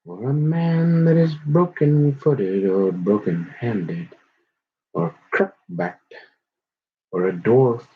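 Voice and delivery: measured, solemn Bible reading; scripture reading. Acted. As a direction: read it like a preacher at the pulpit. Reads scripture aloud, solemn.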